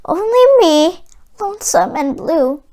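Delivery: a lightly voiced, lonesome jukebox; a hint of a lonely jukebox warning. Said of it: "The voice came from the jukebox".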